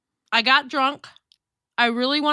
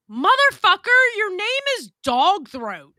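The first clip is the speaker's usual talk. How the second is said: angry rant; 5 semitones higher than usual. Real, not acted. Yelling at chat user.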